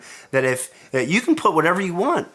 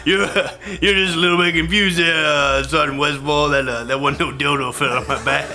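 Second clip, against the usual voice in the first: mock denial through laughter; chuckling while brushing off the sergeant; laughing denial. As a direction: laugh your way through denying it. Denying the dildo, laughing.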